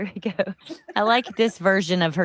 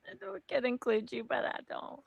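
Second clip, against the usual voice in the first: whispered; 4 semitones higher, 11 dB quieter than usual. Retold or imitated. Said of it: "repeating the line softly".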